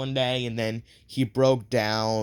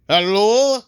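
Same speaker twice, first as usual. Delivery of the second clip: high, loud cute anime voice call; high cute anime girl; 7 semitones higher, 10 dB louder than usual. Retold or imitated. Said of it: "the voice of an anime person".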